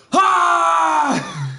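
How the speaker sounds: loud, high maniac yell; unhinged shriek. Acted. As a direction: scream out like a madman. Villain shriek.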